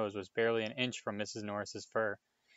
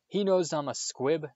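higher, loud, voice changed; Filch's bitter confession; 6 semitones higher, 6 dB louder than usual. A narrator's reading. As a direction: force out the shameful word.

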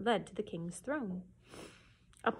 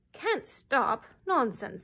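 louder, sharp royal dismissal; fierce scoff; 4 semitones higher, 4 dB louder, slower than usual. Acted. A touch of a fierce king dismissing the cow. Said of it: "said the king fiercely".

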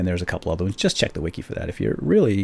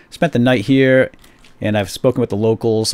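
usual speaking voice

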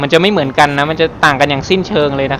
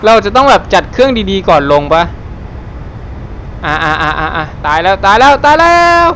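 excited panic; 4 semitones higher than usual. Real, not acted. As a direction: yelp through a crash landing. Hard landing in the game. (ตื่นเต้นตกใจตอนเครื่องลงแรง)

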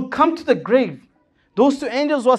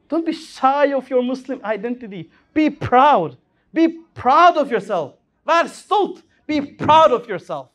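emphatic exhortation; 3 semitones higher, 4 dB louder than usual. Real, not acted. Preacher exhorting youth.

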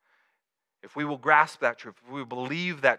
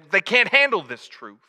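raised, louder mock movie-star outburst; Jack Nicholson; 6 semitones higher, 6 dB louder than usual. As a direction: attempt a famous actor's indignant courtroom line. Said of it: "as Jack Nicholson would say".

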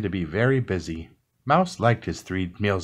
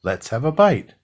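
louder, higher delighted cry; 4 semitones higher, 6 dB louder than usual. A narrator's reading. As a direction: bubble over with joy at the fire. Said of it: "said Mouse with delight".

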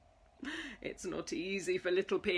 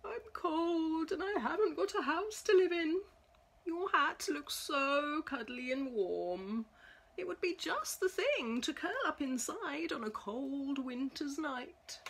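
a small, higher, sorry little mouse voice; sad tiny mouse; 5 semitones higher than usual. Acted. Homeless mouse asking the pig for his hat, small and higher. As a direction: sound cold and pitiful.

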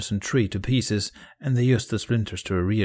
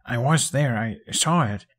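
insistent protest; earnest, raised plea; urgent; 3 semitones higher than usual. A narrator's reading. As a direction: press the point to be believed. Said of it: "he added urgently".

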